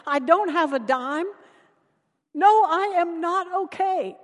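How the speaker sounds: a touch of crying despair; mild tearful outburst. Retold or imitated. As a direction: spill it all out, upset. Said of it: "bursts into tears".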